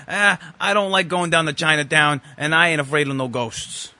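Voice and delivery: mock Brooklyn accent; Dan Aykroyd. Podcast host quoting the cab driver in a mock Brooklyn accent. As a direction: lightly imitate a bad Brooklyn cabbie. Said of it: "in the worst Brooklyn accent".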